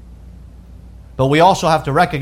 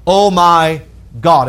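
drawn-out, louder exclamation; imitated exclamation; 5 dB louder, slower than usual. Preacher quoting what people say irreverently, imitated exclamation. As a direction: quote a careless oath, loudly and slowly. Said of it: "where people say".

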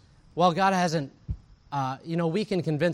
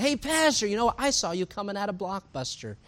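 higher-pitched, lightly voiced eager church member; imitated eager greeting; 5 semitones higher than usual. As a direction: hail him brightly, as if quoting someone. Voices church member hailing his pastor.

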